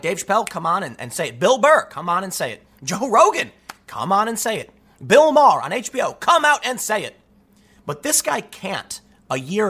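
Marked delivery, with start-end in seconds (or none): 0.0-7.2 mock Netflix invitation. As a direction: egg each comic on, more insistent each time. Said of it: "Netflix being like".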